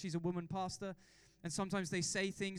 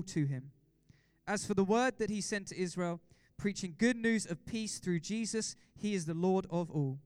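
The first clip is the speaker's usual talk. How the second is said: Bible reading. Acted. Reads Bible passage aloud.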